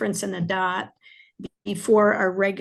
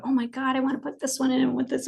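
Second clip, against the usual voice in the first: higher-pitched, rushing excited thought; energized; 5 semitones higher, much faster than usual. Retold or imitated. Author recalling her own eagerness to add more, energized. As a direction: act out bubbling over with ideas. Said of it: "I would get energized".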